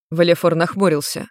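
usual speaking voice

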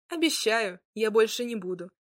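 smiling. Acted. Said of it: "с улыбкой сказал Кащеятус".

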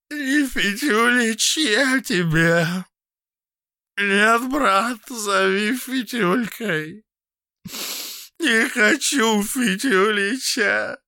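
high, slow, loud tearful pleading; tearful drunken plea; crying. A narrator's reading. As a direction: weep and insist. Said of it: "Вид плачущего Фитюльки".

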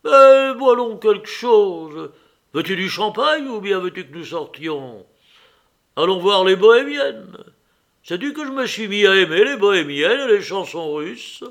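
loud, high, excited invitation; rally them to drink and go out; boisterous urging. A narrator's reading. Nicolas, drunk, presses champagne and bohemians on his brother, boisterously.

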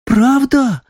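high, amazed question. Acted. Girl amazed to hear he lives in Moscow, high amazed voice. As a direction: gasp it out in wonder. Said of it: "изумилась она".

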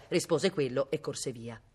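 plain reading voice

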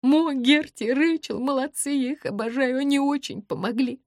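a tearful outpouring to him. A narrator's reading. Tearful heroine pours out feelings.

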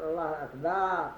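أكبر with the ba vowel stretched, as أكبار; lengthened ba in akbar. Shown as a demonstration. Teacher imitates the error of stretching the ba. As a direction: draw out the ba of أكبر. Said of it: "ومنهم من يمد الباء من أكبر".

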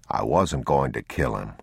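subdued father. Acted. Man explains himself to the silent boy, subdued. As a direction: offer it low to the child.

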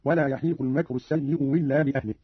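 "السيء إلا" said as-sayyi-u willa; a w sound starting "إلا"; hamza turned waw. Shown as a demonstration. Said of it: "أو إبدالها واوا".

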